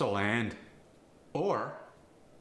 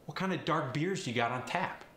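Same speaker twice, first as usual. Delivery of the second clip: cockney accent; 4 semitones higher than usual. Shown as a demonstration. Example sentence translated back.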